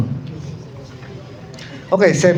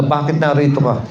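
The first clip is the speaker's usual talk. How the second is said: stern teacher; 3 semitones lower than usual. Retold or imitated. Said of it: "ang sungit ng salita na".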